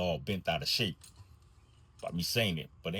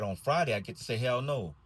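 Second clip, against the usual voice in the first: put-on child voice; 4 semitones higher than usual. Child repeats line to driver.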